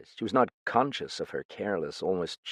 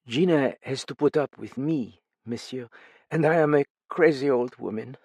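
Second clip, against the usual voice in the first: higher, gently begging; tired older woman, pleading; 5 semitones higher, 4 dB louder than usual. A narrator's reading. Older woman begging the frightened guest, gently higher. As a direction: soothe her frightened friend. Madame Duchesne speaks.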